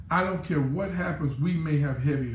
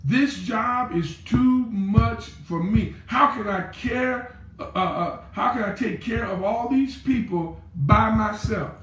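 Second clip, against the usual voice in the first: overwhelmed plea; 4 semitones higher than usual. Acted. Moses telling God the job is too much, pleading. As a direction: moan it as a burdened leader.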